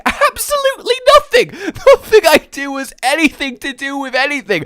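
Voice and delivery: high, loud comic declaration; exaggerated high-pitched admission; mock outburst. Real, not acted. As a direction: proclaim it with absurd gusto. Answers own question with outburst.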